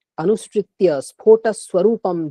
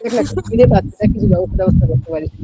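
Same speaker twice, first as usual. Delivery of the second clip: flattering; 4 semitones higher than usual. Retold or imitated. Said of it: "বেরিয়ে প্রশংসা করতে পারে".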